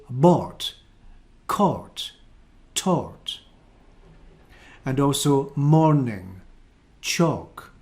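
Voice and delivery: "bought", "caught", "taught" with the R sounded, slow; Scottish vowel with R; Scottish accent. Shown as a demonstration. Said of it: "I would say".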